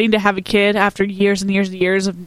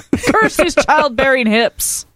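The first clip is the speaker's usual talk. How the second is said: higher, drawn-out mock curse through a laugh; slow, playful lament; mock cursing; 5 semitones higher, slower than usual. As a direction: curse your own body in hammed-up, laughing complaint. Mock-cursing own hips, laughing.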